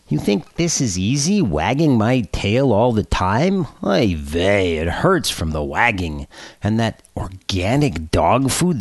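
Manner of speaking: complaining kvetchy dog; whiny dog voice. Acted. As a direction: whine it like a sulky pet. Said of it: "the dog says in a whiny voice".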